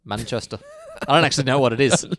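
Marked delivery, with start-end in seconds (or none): 0.0-0.6 badly faked Manchester accent; terrible Manchester accent. Shown as a demonstration. Repeating the town on a co-host's request, badly faked Manchester accent. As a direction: have another clumsy go at a Manchester accent. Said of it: "Do it again".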